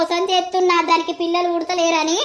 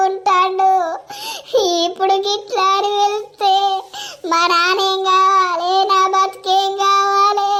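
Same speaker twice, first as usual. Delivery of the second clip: sing-song lament. Acted. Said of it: "ఏడవకు".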